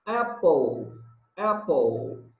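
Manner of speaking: apple said slowly and clearly, short a like ɛ; teacher modelling apple; model pronunciation. Shown as a demonstration. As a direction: demonstrate apple as ɛ-pol for the class to repeat. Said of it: "Repeat after me".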